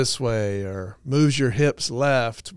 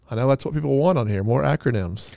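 dry, understated sarcasm; quick deadpan jab, tossed off lightly; sarcastic; faster than usual. Real, not acted. Host teasing listeners about loving acronyms, sarcastic. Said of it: "That was sarcasm".

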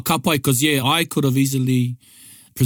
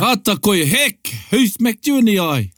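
surprised; 6 semitones higher than usual. Acted. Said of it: "Oh, gosh, a surprise".

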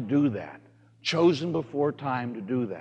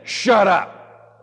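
mock student; 5 semitones higher, 6 dB louder than usual. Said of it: "And then he said".

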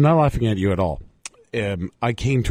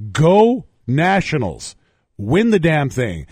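grudging cheer; 4 semitones higher, 3 dB louder, slower than usual. Real, not acted.

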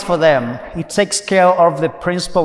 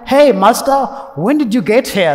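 excited; 5 semitones higher, 4 dB louder than usual. Retold or imitated. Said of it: "They're very excited to see him".

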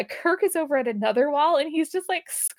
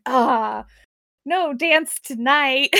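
mock sad; 5 dB louder, much slower than usual. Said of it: "he has the best line".

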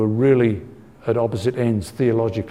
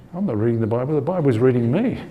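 amused quote; 3 semitones higher than usual. Retold or imitated. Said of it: "you think".

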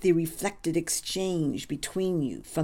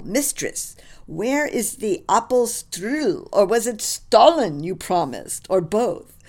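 boisterous German colonel, pitched up and louder; a merry officer calling for dessert; lightly voiced jovial German officer; 4 semitones higher, 5 dB louder than usual.

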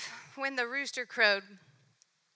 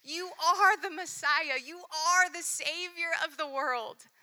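louder, ringing confession; proclaiming; 5 dB louder than usual. Acted. Peter confessing Jesus as Messiah, loud and ringing. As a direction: declare it to the whole room. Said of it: "He was the one that said".

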